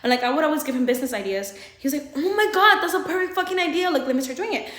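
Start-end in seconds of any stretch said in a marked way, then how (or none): 2.2-4.7 high, gushing imitation of his excitement; mock excitement. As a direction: gush it loudly, then ease off. Acting out his excited reaction.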